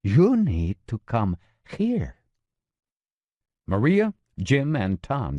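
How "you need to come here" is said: gravelly voice. Acted. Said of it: "in his gravelly voice".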